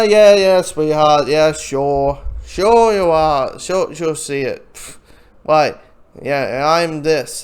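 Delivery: loud, slow, condescending brush-off; dismissive mockery. Soldiers mocking Hit Girl's warning, loud and condescending. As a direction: pat her on the head with scorn.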